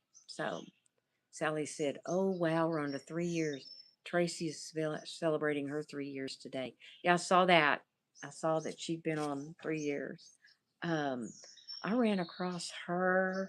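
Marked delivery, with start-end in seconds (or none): none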